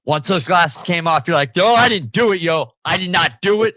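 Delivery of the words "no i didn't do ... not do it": high, loud squeaky protest of innocence; mock panicked plea. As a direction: play the busted kid begging, voice shooting up. Caught kid pleading innocence.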